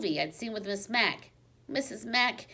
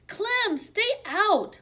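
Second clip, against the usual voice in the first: high, loud shout; shouting at the dog; 13 semitones higher, 5 dB louder, much slower than usual. A narrator's reading. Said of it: "Miranda shouted".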